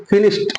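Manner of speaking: फिनिश्ड ending in T; correct pronunciation. Shown as a demonstration. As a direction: close फिनिश्ड on a T sound. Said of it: "इस तरीके से बोलेंगे". (फिनिश्ड के अंत में 'ट' की आवाज़)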